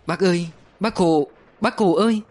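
wailing, rising high and breaking; bursting into sobs. A narrator's reading. Political officer bursts out weeping at the news, wailing. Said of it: "anh òa khóc".

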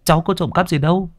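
high, stammering, scared denial; frightened stammering thief; stammering in fright. A narrator's reading. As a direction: stutter out the excuse, terrified. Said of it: "Phùng ú ớ".

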